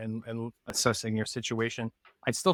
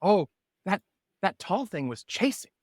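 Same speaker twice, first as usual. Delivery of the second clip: bird voice; 6 semitones higher than usual. Acted. Bird character answers party.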